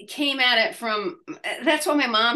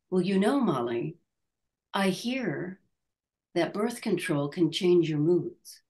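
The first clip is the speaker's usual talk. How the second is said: calm mom; 4 semitones lower, 4 dB quieter than usual. Retold or imitated. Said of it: "It was just very, calmly".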